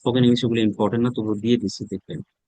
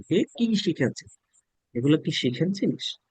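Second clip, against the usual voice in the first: higher, dismissive mock student voice; mocking know-it-all student, pitched higher; scoffing student; 4 semitones higher, 4 dB quieter than usual. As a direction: scoff like a student who thinks he knows it all. Teacher mocks overconfident students.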